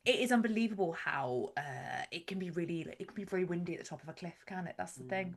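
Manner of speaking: put-on Bristol accent. Talking of windy cliff tops, Bristol accent. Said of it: "trying to get into the accent".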